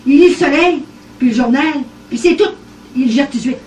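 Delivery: amused indignant outburst; laughing protest. Retold or imitated. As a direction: plead her case, half laughing. Laughing protest about husband.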